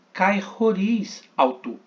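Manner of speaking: slow "Kai, roriz alto" with a rough r; Greek demo. Shown as a demonstration. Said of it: "Mais uma vez aqui".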